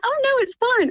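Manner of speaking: high, light imitation of a kindly stranger; kind reassurance. Woman beside her reassuring the embarrassed mum, kind reassurance. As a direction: imitate someone sweetly waving it off. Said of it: "she was so kind and like".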